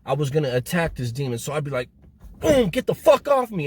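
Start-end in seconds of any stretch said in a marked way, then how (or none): 2.4-3.7 higher, louder retold outburst; re-enacted angry yell, pitched up; retold scream. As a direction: act out screaming to fight off an attacker. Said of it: "I scream it so loud".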